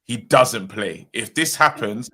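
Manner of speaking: imitating a panicking Geordie accent; lightly voiced Geordie accent, urgent. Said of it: "in his Geordie accent".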